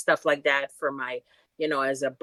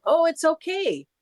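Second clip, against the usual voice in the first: brushing it off; 11 semitones higher, 5 dB louder than usual. Retold or imitated. Bert brushing off injury.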